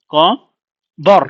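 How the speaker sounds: ক alone, a pause, then বর in one piece; syllable split. Shown as a demonstration. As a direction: break কবর after ক. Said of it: "বর এটা কিন্তু একসাথে".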